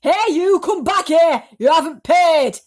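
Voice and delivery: loud, high angry shout; angry yelling. Acted. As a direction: bark at the cheat running off. Aunt yells at non-payer.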